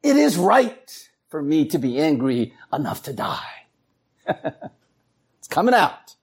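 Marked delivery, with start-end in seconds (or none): 0.0-3.6 stubborn Jonah. Retold or imitated. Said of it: "He says".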